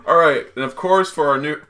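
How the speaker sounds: talking while chewing gum; gum in mouth. Real, not acted. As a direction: speak around a wad of gum. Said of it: "I have gum in my mouth and can't speak correctly".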